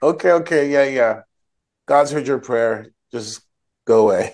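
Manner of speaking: hurried, impatient okays, waving her off; dismissive brush-off. Retold or imitated. Priest brushing off the weeping woman, dismissive and impatient. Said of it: "Eli is basically like".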